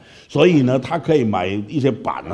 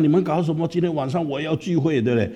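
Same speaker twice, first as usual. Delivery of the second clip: higher, scolding rant; angry pastor; 6 semitones higher than usual. Retold or imitated. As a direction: pastor scolds the boys about the key. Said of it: "他好生气的讲我了". (牧师生气地责备)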